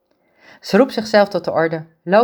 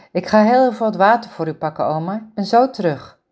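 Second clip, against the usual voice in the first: hoger, snel doorratelend en bezorgd; bezorgde jonge vrouw; 2 semitones higher than usual. Acted. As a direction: een jonge verzorgster die zich zorgen maakt om haar oma. Ingrid tegen haar oma. (bezorgde Ingrid, hoger en luider pratend)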